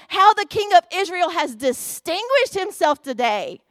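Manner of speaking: a hint of a sarcastic nagging wife. Michal mocking King David from the window, light nagging sarcasm. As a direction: sneer it lightly like a scornful wife. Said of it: "nagging wife voice going on there".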